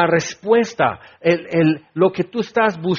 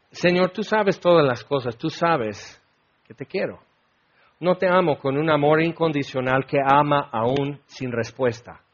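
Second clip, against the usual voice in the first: sad Peter; 4 semitones lower, 5 dB quieter than usual. Acted. Sad Peter reading, fading.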